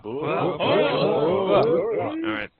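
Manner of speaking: big high battle-cry shout; loud gung-ho soldier. Real, not acted. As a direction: roar it out like a drill ground. Cheering sergeant's promotion.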